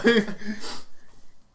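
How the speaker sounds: breathy unvoiced laugh; cracking up at the joke; real laughter after the bit; burst of laughter. Real, not acted. Laughing at mock rage.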